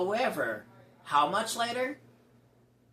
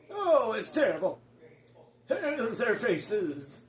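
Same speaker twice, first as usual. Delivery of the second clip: horrified; 5 semitones higher, slower than usual. Acted. Townsperson horrified at faceless.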